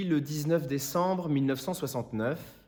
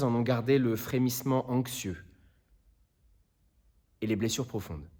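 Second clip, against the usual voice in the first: low, hushed plea sinking towards a near whisper; grave closing words with long pauses, fading away; solemn appeal; 3 semitones lower, 4 dB quieter than usual. Acted. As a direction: plead from the heart, softly and gravely. Lawyer's solemn final appeal to jury.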